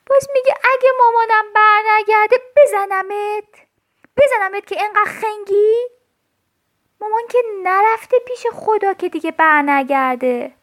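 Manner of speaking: sing-song the threat, furious at the doll; loud, high sing-song scolding; angry threat. Acted. Child angrily threatens doll.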